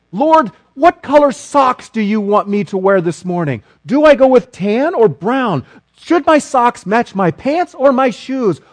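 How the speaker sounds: rising, pleading list of questions to God; a hammed-up, anxious stream of requests; mock earnest prayer. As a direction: play the eager believer asking God about everything. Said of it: "I'm getting a little bit on the facetious side".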